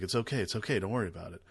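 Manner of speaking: soft, gentle reassurance; calm a frightened friend down; soothing blind man. Retold or imitated. The blind man soothing the scared monster, soft and gentle. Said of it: "It's like".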